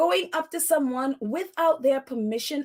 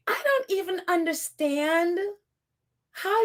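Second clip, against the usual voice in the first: whispered in disbelief; 2 semitones higher than usual. Real, not acted. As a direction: breathe it out, stunned. Stunned while telling the story.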